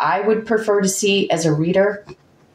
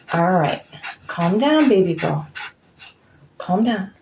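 soothing the dog. Real, not acted. Reader hushing her barking dog, soothing pet-talk. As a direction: settle the barking dog gently.

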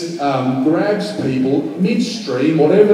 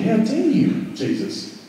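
mock indignation. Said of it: "and you think".

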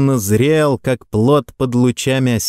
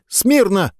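high thin squeaked command; weak cadet squeaking the order; 9 semitones higher than usual. A narrator's reading. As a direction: squeak it out timidly. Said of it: "пискнул парнишка".

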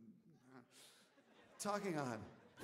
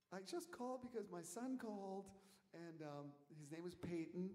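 soft, lightly imitated tearful Southern mother; retold tearful plea, softly; imitated near-tears mother; 2 semitones higher, 7 dB quieter than usual. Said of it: "almost in tears, very heavy Southern accent".

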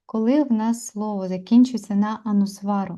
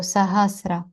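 сагасра read syllable by syllable with equal weight; even syllables. Shown as a demonstration. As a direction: give each syllable of сагасра the same beat. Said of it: "читаємо ніби як рівно складово".

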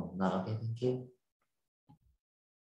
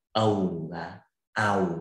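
slow "ầu và ào", each glide stretched; slow vowel demo; 2 semitones lower, slower than usual. Shown as a demonstration. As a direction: show how the two sounds join. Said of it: "nó nhanh hơn". (đọc chậm "ầu và ào")

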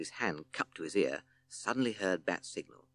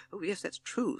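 high toad voice, relieved; 12 semitones higher than usual. A narrator's reading. Timid Toad agreeing with Owl, relieved. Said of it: "looking very relieved".

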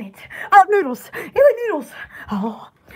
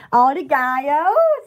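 "Oh, the guy, oh" with a raised final syllable; tone at the end; 4 semitones lower than usual. Shown as a demonstration. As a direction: start low, lift the last "oh" like a question. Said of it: "put the tone at the end of the word".

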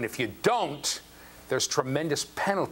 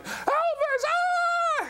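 very high, mock shrieking "Elvis, ah!"; fan girls screaming; much slower than usual. Girls at a party, very high mock shriek for a singer. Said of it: "stand in front of the T V screaming".

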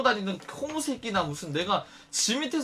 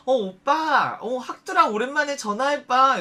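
calling into phone; 6 semitones higher, 6 dB louder, slower than usual. Retold or imitated. Sister calls out on phone.

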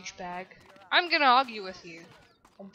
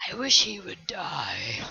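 whispering; 5 semitones lower than usual. Real, not acted. Whispered grudge at character.

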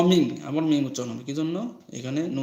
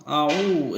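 আউ with the উ drawn out; stretched long vowel; 5 dB louder than usual. Shown as a demonstration. Teacher pointing out madd, আউ with a long উ. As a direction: hold the উ of আউ for one alif. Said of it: "এখানে একাল পরিমাণ টান".

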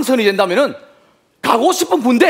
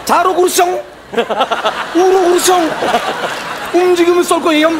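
korean military style; 3 semitones higher, slower than usual. Pretend. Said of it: "딱딱하게 다 나 까로 끝났던 군대 말투".

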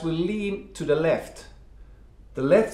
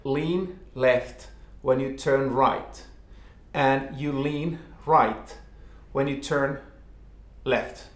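slow instruction. Shown as a demonstration. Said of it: "the most easy fix is the most simple one".

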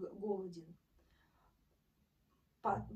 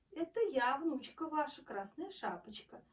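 thin little voice; 4 semitones higher than usual. Acted. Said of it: "отвечает волк тоненьким голоском".

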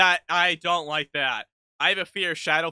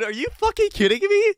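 shocked yell; 14 semitones higher, 5 dB louder, faster than usual. Real, not acted. Jump scare in horror game.

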